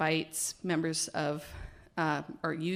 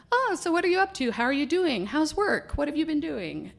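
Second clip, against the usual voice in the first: higher, fast, chatty questions; mock-eager caller, pitched up and quick; imitating Mike; 10 semitones higher, 5 dB louder than usual. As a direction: rattle off the questions like a chatty friend. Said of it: "he was asking all about me".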